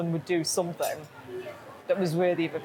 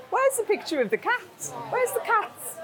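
much higher, pleading fans; high plaintive plea; 12 semitones higher than usual. Retold or imitated. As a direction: whine it like eager fans. Quoting disappointed followers.

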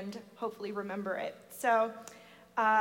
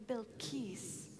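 bowed name; 12 dB quieter than usual. Shown as a demonstration. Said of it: "Say that with me".

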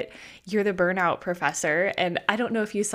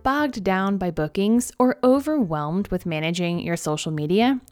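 upbeat sponsor ad read. Acted. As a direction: sell it like a podcast ad. Reads a sponsor ad.

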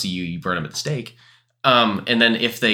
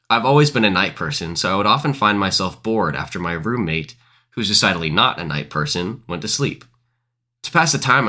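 story narration; 5 semitones lower than usual. A narrator's reading. Reads scary story aloud.

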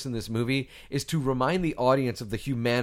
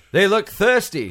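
loud, higher mock Cockney movie hero; hammed-up Cockney war cry; full Cockney; 6 semitones higher, 6 dB louder, slower than usual. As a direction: bellow it in an over-the-top Cockney. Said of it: "he went full Cockney on that".

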